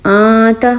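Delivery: آتا with a hidden nasal, tongue not touching the palate; ikhfa. Shown as a demonstration. Teacher demonstrating ikhfa to students. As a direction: keep the tongue in the air on آتا. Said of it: "زبان آپ کی ہوا میں رہی".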